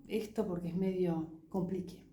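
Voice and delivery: unvoiced, confiding whisper. Real, not acted. Teacher confiding to student it is tricky, whispered. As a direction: whisper it like a shared secret.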